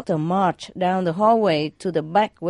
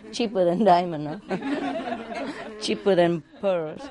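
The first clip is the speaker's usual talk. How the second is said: laughing; 2 semitones higher, 4 dB quieter than usual. Real, not acted. Laughing at own punchline.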